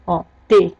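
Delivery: T said as tê with a closed e; closed E demo. Shown as a demonstration. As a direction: model T with a closed ê. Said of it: "um E diferente do outro".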